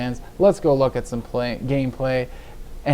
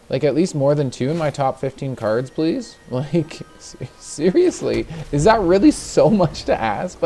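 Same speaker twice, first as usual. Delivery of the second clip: exasperated; 3 semitones higher than usual. Real, not acted. Frustrated at bad draws.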